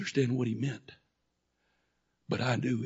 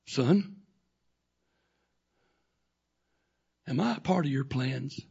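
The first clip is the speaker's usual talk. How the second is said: sweet voice; 3 dB louder than usual. Acted. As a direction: speak gently to your son. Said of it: "sweet voice says".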